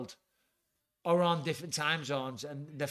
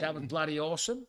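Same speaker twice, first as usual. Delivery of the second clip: put-on Aussie accent; mock-earnest Australian impression. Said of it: "segue out of that impression".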